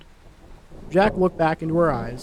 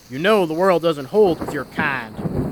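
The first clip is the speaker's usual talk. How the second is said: mild snarl. Acted. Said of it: "Jack snarled".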